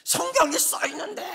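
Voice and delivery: high, strained, tearful cry to God; weeping prayer. Retold or imitated. Pastor retelling his tearful prayer to God, high and weeping. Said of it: "막 울었어요".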